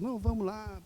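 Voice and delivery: butter them up like a pet; mock cajoling of a reluctant person; coaxing flattery. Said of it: "queremos insistir com as pessoas".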